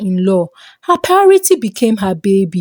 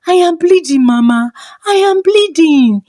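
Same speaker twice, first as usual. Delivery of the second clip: panicked crying out; 7 semitones higher than usual. Acted. Wife crying to mother-in-law she is bleeding, panicked. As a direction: cry out in terror, high and urgent. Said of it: "Ijeoma cried".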